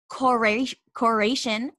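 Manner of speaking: "corration" ending like "nation"; "corration", Spanish stem with an English -ation tail; made-up -ation ending. Retold or imitated. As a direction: imitate a student inventing English "corration". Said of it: "end everything with Asian".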